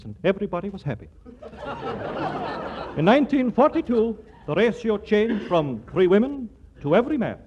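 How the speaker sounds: punchy newsreel announcer read. Acted. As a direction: sell the headlines like a newsreel. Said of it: "what the newscaster says".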